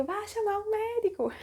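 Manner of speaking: very high imitated shriek; hammed-up desperate yell; mock screaming. Labouring woman sending her partner for the doctor, mock scream. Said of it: "eu comecei a gritar".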